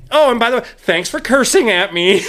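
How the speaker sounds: a sweet little parting dig; mock sweet jab. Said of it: "she's like".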